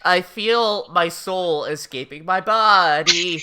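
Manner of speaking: slow, stretched-out mock agony; exasperated despair. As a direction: drag it out as if dying of exasperation. Elle exasperated, soul leaving.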